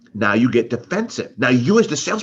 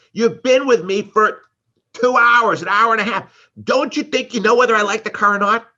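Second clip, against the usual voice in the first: louder, higher exasperated complaint, hammed up; frustrated customer; 6 semitones higher, 4 dB louder than usual. Customer fed up with the salesman's questions, mock exasperated. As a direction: vent like a worn-out buyer.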